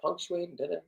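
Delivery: prissy little impression of his wife's nagging; husband mimics wife's complaint, soft and high; mock nagging wife. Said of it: "my wife says".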